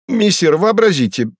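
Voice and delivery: the cat Behemoth cries out to his master, thrilled; excited shout. A narrator's reading. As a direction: burst out with delight. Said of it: "закричал возбуждённый и радостно Бегемот".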